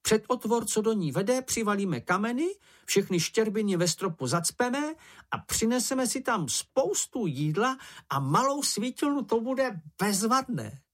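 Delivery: high, squeaky, boastful little animal; Sniff's voice. A narrator's reading. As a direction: brag in a squeaky voice about a secret. Sniff's plan. (vysoký pištivý hlásek, chlubivě)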